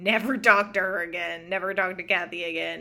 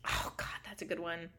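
whispering; 3 semitones lower, 15 dB quieter than usual. Real, not acted. Whispered reaction.

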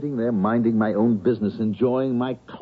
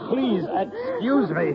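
laughing coyly; 12 semitones higher, much slower than usual. Acted. Laughing woman clings to professor.

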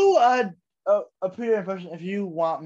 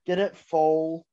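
horse impression.

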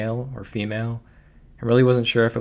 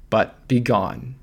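slow, loud booming command; 5 dB louder, much slower than usual. Acted. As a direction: boom it out like a god. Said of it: "boomed the voice so loudly".

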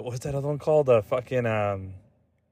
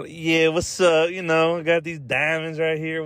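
New York artist swagger, pitched a bit higher; mock New York accent; 4 semitones higher, slower than usual. Artist showing off his diamonds, mock New York accent. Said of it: "an artist from New York City's".

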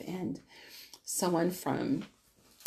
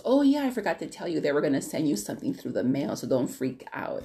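offhand brother; 2 semitones lower than usual. Retold or imitated. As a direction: imitate a brother casually remembering, in a rush. Retelling brother's offhand phone reply.

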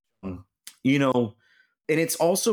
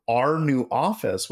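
incredulous echo. Retold or imitated. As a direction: repeat it back, not believing. Echoes boss in disbelief.

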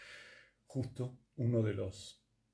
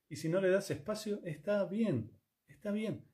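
breezy shrug; 8 semitones higher than usual. Real, not acted. Dismissive shrug at not listening.

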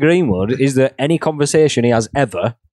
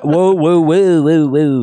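overwhelmed protest; 3 semitones higher, 4 dB louder, much slower than usual. Retold or imitated. Acted overwhelmed quote, louder.

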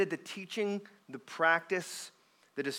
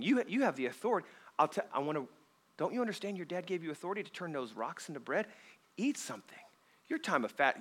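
Satan; 5 dB quieter than usual. Retold or imitated. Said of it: "He's trying to say".

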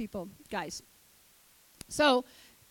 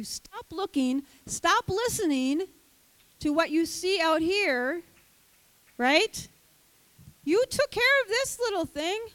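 voice of God; 5 semitones higher than usual. Retold or imitated. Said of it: "God's like".

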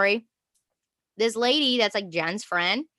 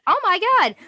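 retold shock; 10 semitones higher, 5 dB louder than usual. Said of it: "reacting in shock".

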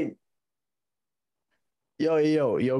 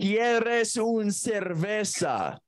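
very slow, higher, stretched syllables; slow, drawn-out repeat; 5 semitones higher, much slower than usual. Real, not acted. Caller repeating a question she did not hear, slow and drawn out. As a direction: draw out every word for someone who missed it.

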